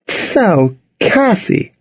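high, chirpy address; brightly said. A narrator's reading. Charlotte turning to the new girl, brightly. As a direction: sing out the name with bright cheer. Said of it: "Charlotte said brightly".

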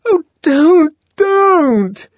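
high, loud cry while being shaken; shaken, frightened pleading; tremulous protest. A narrator's reading. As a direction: beg as if shaken by the shoulders. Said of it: "protested in a voice made grotesquely tremulous".

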